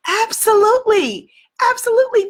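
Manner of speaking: loud, high-pitched, emphatic yes; emphatic conviction. Real, not acted. Coach assuring listeners fears can be overcome, emphatic conviction. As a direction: answer with rousing certainty. Emphatic answer to own rhetorical question.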